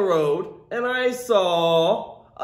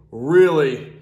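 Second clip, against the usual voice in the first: mock disgust; 6 semitones lower, 4 dB louder, much slower than usual. Exaggerated disgust at smell.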